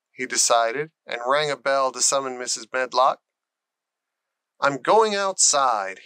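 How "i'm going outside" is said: stating firmly. Acted. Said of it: "he stated".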